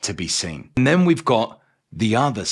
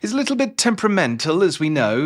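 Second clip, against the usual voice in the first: higher, hesitant, stammering warning; mock flustered gentleman, pitched up; Doctor Jekyll; 5 semitones higher than usual. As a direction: stumble nervously into a polite warning. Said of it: "trying to warn him off".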